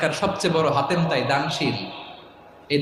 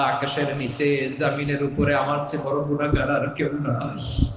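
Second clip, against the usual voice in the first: tearful prayer. Acted. Preacher voices tearful confession prayer.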